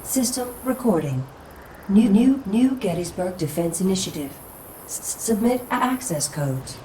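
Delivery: stuttering, halting machine voice booting up; old computer voice skipping and repeating; glitching robot voice. Acted. Malfunctioning old adjutant booting up.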